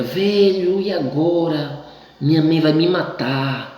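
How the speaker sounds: high, slowed mock dread; mock panic. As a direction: overdo the fear of mom's punishment. Kid panics to friend after mischief.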